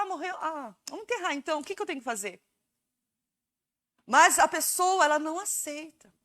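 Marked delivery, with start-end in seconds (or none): 0.0-2.4 mock indifference. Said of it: "seria estranho a pessoa falar".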